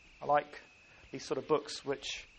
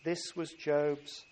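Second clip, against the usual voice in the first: scripture reading. Acted. Pastor reading Job to the congregation, measured scripture voice. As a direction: let each verse land with weight. Reads Job chapter one.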